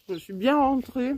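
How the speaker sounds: talking with a mouthful; chewing while talking; mouth full. Real, not acted. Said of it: "je vous parle la bouche pleine".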